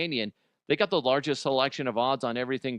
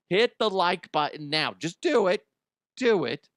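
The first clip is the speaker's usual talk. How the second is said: higher, louder, insistent push; pushy urging; 5 semitones higher, 3 dB louder than usual. Real, not acted. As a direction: press them to click, half joking. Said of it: "urging viewers".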